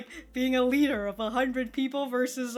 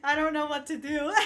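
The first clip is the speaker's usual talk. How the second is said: mock uncomfortable groan; 3 semitones higher than usual. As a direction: whine it out like a squirming boy. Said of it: "Someone who's just like".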